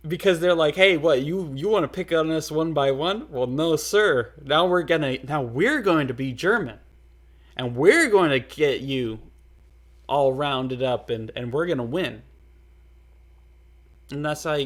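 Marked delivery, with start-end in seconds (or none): 0.8-12.2 loud, cocky challenge as the Germans; mock rallying cry, pushed loud; defiant taunt. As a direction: bellow it like a nation squaring up. Germans voiced taunting France.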